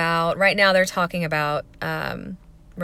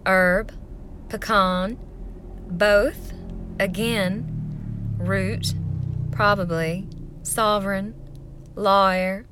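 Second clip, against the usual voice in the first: played-up Southern drawl, word by word; Southern accent; much slower than usual. Shown as a demonstration. Vlogger playing up her accent for a pronunciation list, Southern accent. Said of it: "do 'em in a Southern accent".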